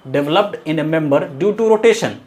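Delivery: very slow, word by word, for notes; dictating a definition to the class; slow dictation. Shown as a demonstration. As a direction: read out slowly so students can write. Reading definition off the board.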